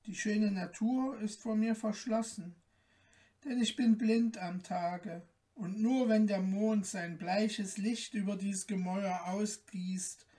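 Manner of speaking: sorrowful lament. Acted. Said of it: "die Erzählung ihrer Leiden hatte ihr Tränen entlockt".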